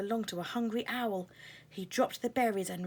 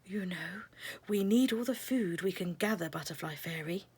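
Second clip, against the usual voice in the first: soft but stern. Acted. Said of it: "in a soft but stern voice".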